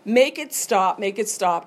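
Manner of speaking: mock desperation, make it stop stretched out; desperate plea. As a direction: beg for it to end, half-acted. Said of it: "And it was like".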